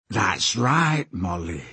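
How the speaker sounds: lightly gloating villain; delighted taunt. Acted. Slank enjoys Molly's flinch, mildly delighted taunt. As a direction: savour her flinch a little. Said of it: "delighted at the reaction".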